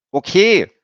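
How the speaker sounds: put-on high, loud girl's voice; a child stating a fact; little girl. A narrator's reading. Emmy notices Stefan bleeding, high girl's voice.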